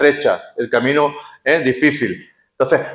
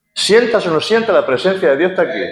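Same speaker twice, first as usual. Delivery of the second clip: the repeat pitched much higher, pressing the point; raised repeat; 4 semitones higher than usual. Acted. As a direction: lift the second "Sientas o no sientas" up high for emphasis. Repeated line, second take raised.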